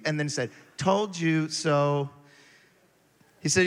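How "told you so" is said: slow smug told you so; sarcastic. Retold or imitated. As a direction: draw it out, smug and teasing. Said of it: "very sarcastic like".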